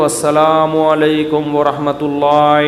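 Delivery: slow twisted السلام علیکم ورحمۃ اللہ with a strange swing; mock the imam's weird ending salam; imitating an odd imam. Preacher imitating a village imam's strange salam, slow mock chant. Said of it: "جب وہ سلام پھرنے لگے تو".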